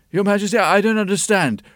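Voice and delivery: fast, flustered servant; bewildered old chamberlain; confused old servant. Acted.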